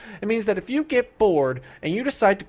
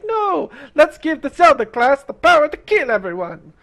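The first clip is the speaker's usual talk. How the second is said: higher, louder goofy designer voice; mock game designer; 6 semitones higher, 5 dB louder than usual. Streamer mocking a designer's pitch, goofy higher louder voice. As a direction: play the clueless designer pitching his idea. Voicing the developer's dumb idea.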